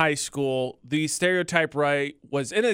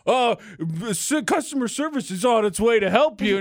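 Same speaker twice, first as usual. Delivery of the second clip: self checkout prompts; 3 semitones higher than usual. Retold or imitated. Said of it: "it's like".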